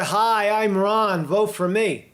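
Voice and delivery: a lighter campaign read, off the mic; mic further back. Shown as a demonstration. Host showing how the ad's voice sits back from the mic. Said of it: "he sounds more like this back here".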